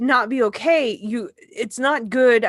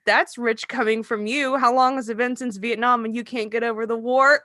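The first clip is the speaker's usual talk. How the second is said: snide comeback. Retold or imitated. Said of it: "I was an asshole".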